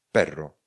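"Perro" as pero with one quick R; don't roll the R in "Perro"; single-tap R. Shown as a demonstration. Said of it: "pero se píše i s jedním R".

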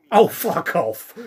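slow shouted disbelief; exasperated outburst. Real, not acted. Outburst at absurd scene.

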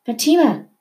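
high relieved cry of her name; cried with relief. A narrator's reading. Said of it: "cried with relief".

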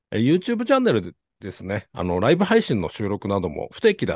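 formal announcer read; polite host reading show info; ultra polite japanese. Acted. Host reads formal show overview.

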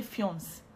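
"fiance" said as one syllable, "fyonce"; mispronounced fiancé. Shown as a demonstration. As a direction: leave the final "ay" off "fiance". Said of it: "Why do people say fiance?".

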